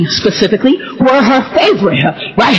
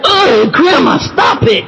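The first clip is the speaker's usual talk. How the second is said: exasperated protest; 3 semitones higher, much slower than usual. Retold or imitated. Grandchild to Grandma over wrong names, exasperated protest. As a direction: tell her to quit it, exasperated.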